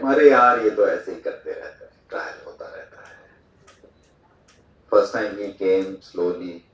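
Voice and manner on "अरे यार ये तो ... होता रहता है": loud opener, then fast dropping mumble; casual dismissal. Retold or imitated. Colleague shrugging off another fire alarm drill, casual and dismissive. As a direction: brush it off quickly, trailing into near-whisper. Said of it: "he casually came".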